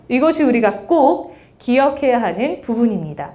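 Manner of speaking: 꼭 struck sharply with a falling close; firm, disciplined statement with 꼭 hit hard; crisp and firm. Shown as a demonstration. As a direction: land 꼭 like a decisive chop, then settle. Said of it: "절도 있게".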